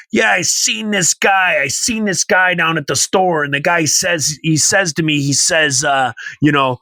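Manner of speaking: a hint of an old-timer's yarn; old-timer storyteller. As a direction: tell it like a rambling old-timer, looping on "he says". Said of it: "that's how he talks".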